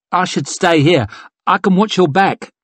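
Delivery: a hint of eager protectiveness; earnest offer; lightly voiced eager young man. Severard offers to stay.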